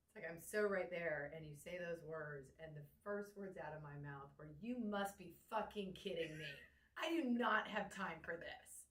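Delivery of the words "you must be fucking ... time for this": angry, slow, rising to higher and louder; furious sister laying down the law; retold berating. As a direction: scold him hard, no sympathy. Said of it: "And I just berated you".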